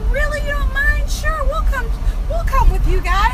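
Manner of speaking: high-pitched imitation of a delighted mom; eager mom. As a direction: gush like a mom accepting an invite. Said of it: "And she was like".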